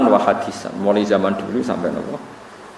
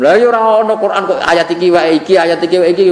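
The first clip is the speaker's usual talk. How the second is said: mock indignant objector; 7 semitones higher, 5 dB louder than usual. Mocking a literalist's complaint.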